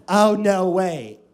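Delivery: loud, slow, drawn-out disbelief; shocked realization. Retold or imitated. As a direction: imitate a girl's big dismayed surprise. Girl learns he is deaf.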